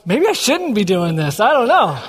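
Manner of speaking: light laugh breaking in at the end; imitated giggling pastor. Pastor doubting his own offer, mock giggling. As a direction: imitate someone giggling through second thoughts. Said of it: "Pastor Heck just starts giggling".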